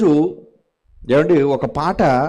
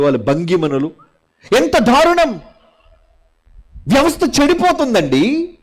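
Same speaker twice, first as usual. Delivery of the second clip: outraged preaching; 6 semitones higher than usual. Real, not acted. Outrage over vulgar songs.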